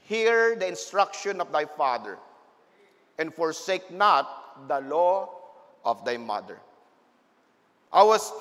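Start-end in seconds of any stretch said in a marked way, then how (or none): 0.0-6.6 solemn scripture reading. Real, not acted. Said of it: "Bible says in Proverbs".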